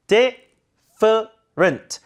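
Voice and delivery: different very slowly, "DE - fuh - rnt"; broken-down reduction. Shown as a demonstration. Teacher breaking it down, slow different with weak ending. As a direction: split different, schwa in weak syllables. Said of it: "약화시켜야겠죠".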